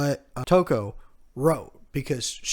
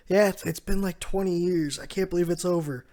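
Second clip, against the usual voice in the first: joyful Neko; 5 semitones higher, 6 dB louder than usual. Retold or imitated. Neko voiced in recap.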